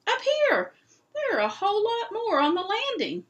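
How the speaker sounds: high, loud excited shouts; a crowd searching a castle, shouting; crying out. Acted. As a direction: call out eagerly from all over the castle. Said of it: "voices crying out at once".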